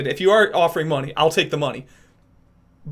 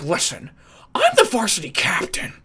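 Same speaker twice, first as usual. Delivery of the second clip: scrawny know-it-all bragging; overly cocky kid; 2 semitones higher than usual. Acted. Imagined team captain boasting, overly cocky. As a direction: put on a cocky kid's boast. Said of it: "he's overly cocky for everything".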